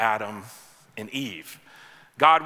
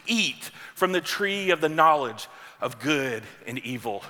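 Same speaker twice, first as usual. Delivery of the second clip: voice of God; 3 semitones higher than usual. Retold or imitated. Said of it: "you hear the voice speak once again".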